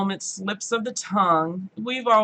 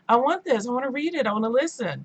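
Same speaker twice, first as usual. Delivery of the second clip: higher, excited craving; eager wanting; 5 semitones higher than usual. Retold or imitated. Vlogger excited by the pink girlfriend book. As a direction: beg for it gleefully. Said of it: "I'm like".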